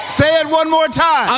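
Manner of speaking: high-pitched pulpit call, falling at the end; rallying call. Real, not acted. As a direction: urge the congregation to respond. Preacher demands amen from congregation.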